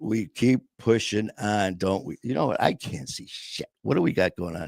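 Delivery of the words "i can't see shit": muttered aside. Real, not acted. Muttering about own eye.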